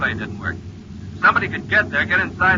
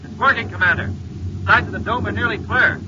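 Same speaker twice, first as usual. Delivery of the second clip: higher, eager good news; excited report; 6 semitones higher than usual. Acted. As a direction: report the win with rising excitement. Pilot reports success by radio.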